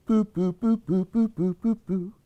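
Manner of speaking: rhythmic little "boo" steps; lightly voiced turtle trotting along in even beats; turtle plodding sounds. Turtle goes to help pull, rhythmic plodding. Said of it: "So the turtle goes".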